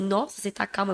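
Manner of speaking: softly quoted dad, mild; retold calm remark. Dad remarks on her unusual calm, quietly retold. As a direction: drop the volume to quote a surprised dad gently. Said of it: "meu pai falou assim".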